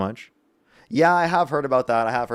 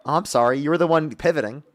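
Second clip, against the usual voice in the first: put-on voice; 3 semitones higher than usual. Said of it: "I'm done with the voice".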